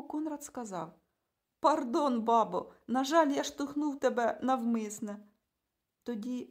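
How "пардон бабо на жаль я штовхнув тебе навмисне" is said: mock-polite insult, brash; cheeky boy. A narrator's reading. Boy Konrad mocking the woman he kicked, loud and brash.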